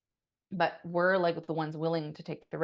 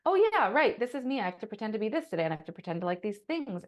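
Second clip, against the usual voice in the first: mock resigned; 4 semitones higher than usual. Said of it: "they have to be like".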